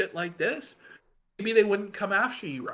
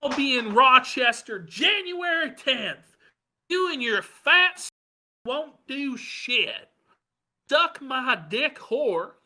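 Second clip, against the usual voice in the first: mocking Ralph; 8 semitones higher than usual. Host reading Ralph's insults aloud in a high mocking voice. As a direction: sneer it out like a petty bully. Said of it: "this is Ralph being harassed".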